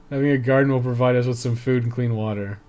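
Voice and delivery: usual speaking voice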